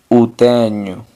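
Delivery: o tenho with o said u, TE-nyu; Portuguese o as u. Shown as a demonstration. Teacher models o tenho for learners, clearly. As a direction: stress that o sounds like u. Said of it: "si se dice solamente u".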